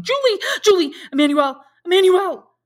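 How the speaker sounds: high, full-voiced calls for help; shouting. A narrator's reading. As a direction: shout the names through the house.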